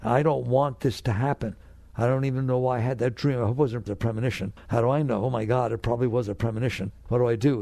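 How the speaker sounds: quick, worried babbling, a touch overdone; imitating someone spooked by a dream; mock anxious fretting. Someone fretting over a bad dream, anxious and rushed. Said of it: "Now you're afraid".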